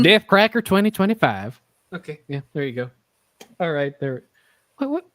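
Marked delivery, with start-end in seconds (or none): 0.0-1.6 louder put-on country accent; mock campaign slogan in a country accent. Host proclaiming a joke slogan to co-host, country accent. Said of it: "say this in country accent".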